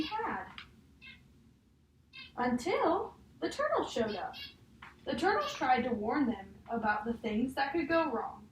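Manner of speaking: put-on reading a picture book aloud to a child; measured storybook read, each page leading to the next; story reading. Teacher reading a picture book to a child, storybook voice.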